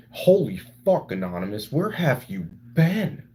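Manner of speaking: shocked outburst at a returning viewer; surprised. Real, not acted.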